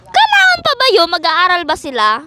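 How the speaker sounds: mock-annoyed high-pitched retort; irritated question. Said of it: "Ba't ka galit?".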